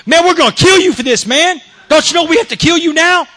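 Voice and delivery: high-pitched mock screaming; screaming threat. Angry players scream at him over the ball, high-pitched threat. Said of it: "now they're screaming at me".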